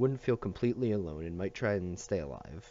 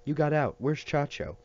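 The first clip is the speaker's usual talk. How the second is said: put-on higher, louder eager child; excited little boy; 6 semitones higher, 4 dB louder than usual. A narrator's reading. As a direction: tumble out the questions.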